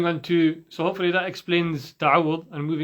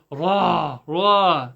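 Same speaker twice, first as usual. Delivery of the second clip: mild demonstrated roar on "ra"; lion roar RA; 4 dB louder than usual. Shown as a demonstration. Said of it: "what does a lion do when".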